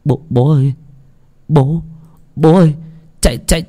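rising panic to a high, loud shout; a son screaming fire at his father; panicked cry. Acted. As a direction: builds from urgent calls to a high, loud panicked yell. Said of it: "tiếng thằng con trai ông hốt hoảng".

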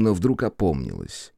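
ordinary delivery, nothing marked

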